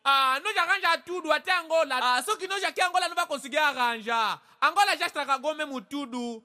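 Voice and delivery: vendor's pitched reply. Acted. Congolese vendor answers.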